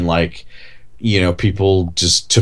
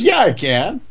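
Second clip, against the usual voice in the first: Michael Caine; 10 semitones higher than usual. Retold or imitated. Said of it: "He goes".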